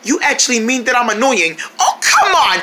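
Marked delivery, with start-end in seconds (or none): 1.8-2.6 laughing protest. Acted.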